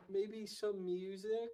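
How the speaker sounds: put-on slow, drawn-out shy kid voice; hesitant child, stretching it out; little girl. Little girl answering her dad, slow and shy. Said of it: "she's like".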